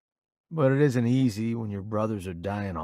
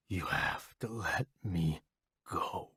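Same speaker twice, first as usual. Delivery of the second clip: whispering; 4 semitones lower, 10 dB quieter than usual. A narrator's reading. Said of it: "he whispers".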